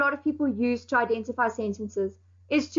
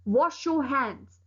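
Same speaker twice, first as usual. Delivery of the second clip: slow command; much slower than usual. Shown as a demonstration. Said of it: "it has to tell you to do something".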